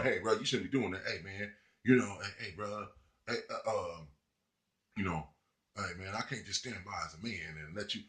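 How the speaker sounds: low, soft, hesitant mock of a timid guy; mock timid simp. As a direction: mumble it like a nervous do-gooder. Mocking timid simp intervening.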